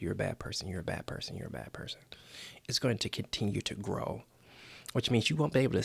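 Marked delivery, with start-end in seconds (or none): 0.0-2.0 self-criticism fading to a hush; fading inner critic. Pretend. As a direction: repeat it softer each time until whispered. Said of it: "constantly beating yourself up".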